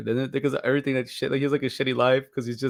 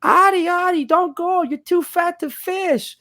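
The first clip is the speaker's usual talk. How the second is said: high, slow mocking mom voice; shrill-free high mother's plea, drawn out; mom's warning; 5 dB louder, slower than usual. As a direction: mimic a fretting mother, way up high. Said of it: "and his mom said".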